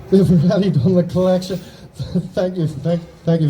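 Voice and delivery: high laughing surprise; surprised laugh. Real, not acted. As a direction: laugh it off, caught out. Surprised collection already done.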